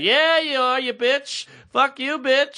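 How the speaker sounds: high mock-sassy insult; sassy instructor. Instructor sassily mocking him on the bike. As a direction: tease him like a sassy coach. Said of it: "she's like".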